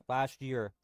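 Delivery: talking with food in mouth; mouth full. Real, not acted. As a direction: speak around a mouthful. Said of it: "Sorry, I have food in my mouth".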